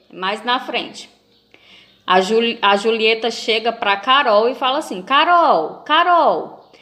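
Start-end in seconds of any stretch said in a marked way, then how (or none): 5.0-6.7 slightly raised, eager call; calling a friend. Acted. Julieta calling Carol over to gossip, calling out. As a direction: call out the name as if bursting with news.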